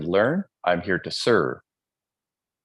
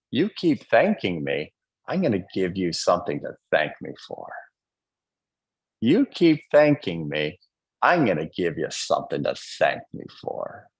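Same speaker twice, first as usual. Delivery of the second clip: divine love; 3 semitones lower than usual. Retold or imitated. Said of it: "I now hear from divine love".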